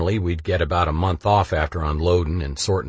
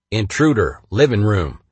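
computerized alarm voice; 2 semitones higher, 4 dB louder than usual. Retold or imitated. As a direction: announce it like a house alarm. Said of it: "alerted me with a computerized voice".

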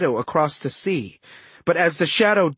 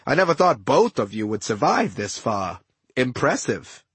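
lightly voiced gloating villain; smug trickster villain. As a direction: talk down to a bound captive, lightly acted. Villain Setna gloats over bound captive.

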